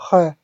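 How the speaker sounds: French R made at the back of the throat; dry throat R. Shown as a demonstration. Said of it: "from the back of the throat".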